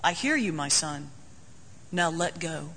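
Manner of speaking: a lightly voiced God speaking gently from above; God answers the man on the cliff calmly; voice from heaven. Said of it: "a voice comes from heaven".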